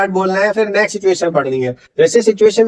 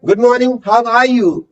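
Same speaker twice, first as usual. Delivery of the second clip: "Good morning, how are you?" said very slowly, every word drawn out; slow model read; much slower than usual. Shown as a demonstration. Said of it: "natural tone रखो और तीन बार repeat करना है". ("Good morning, how are you?" बहुत धीरे-धीरे, हर शब्द खींचकर)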